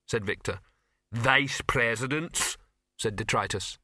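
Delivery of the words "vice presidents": slow, emphatic troll voice; slow troll, pleased with himself; proud troll. Acted. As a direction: savour the title slowly. Troll repeats his proud title.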